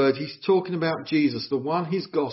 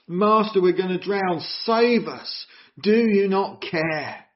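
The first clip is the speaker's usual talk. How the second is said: desperate accusing cry; 5 semitones higher, slower than usual. Acted. Frightened disciples crying out to Jesus, accusing. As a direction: throw the blame at Jesus in panic. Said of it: "it's even accusing Jesus".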